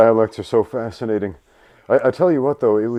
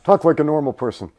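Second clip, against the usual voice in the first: loud, high mock-angry demand; mad commenters; 6 semitones higher, 8 dB louder than usual. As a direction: imitate a fed-up commenter shouting. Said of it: "people get mad about it".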